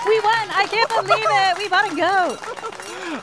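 high, thrilled squeal of victory; excited. Real, not acted. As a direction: celebrate the win, overjoyed. Wins the goat auction.

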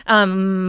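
"um" in the middle of the mouth; central, American hesitation "um". Shown as a demonstration. Coach comparing with her own, American um. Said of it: "more American".

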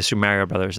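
"Mario" with a flat first vowel, MARE-ee-oh; "Mario" starting like "marry"; regional Mario. Shown as a demonstration. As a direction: say "Mario" to rhyme with "Lario" as in "Larry-o". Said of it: "that's why I get made fun of".

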